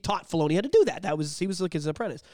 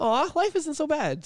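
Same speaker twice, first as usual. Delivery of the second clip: mock consoled; 10 semitones higher, slower than usual. Mimics being cheered by The Office.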